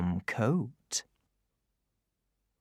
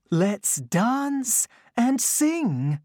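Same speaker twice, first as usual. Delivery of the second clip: tiny tinkling fairy voice; 10 semitones higher, 3 dB louder, much slower than usual. A narrator's reading. The fairy speaks.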